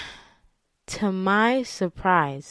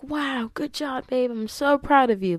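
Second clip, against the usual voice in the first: imitated proud boyfriend; 7 semitones higher, 4 dB quieter than usual. Boyfriend congratulating her on the news, lightly mimicked proud praise.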